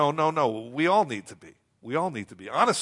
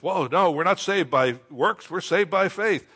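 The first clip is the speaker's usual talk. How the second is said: loud, higher indignant protest; mock upset; 4 semitones higher, 6 dB louder than usual. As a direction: object like an upset believer, playfully exaggerated. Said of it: "the Christian gets all upset".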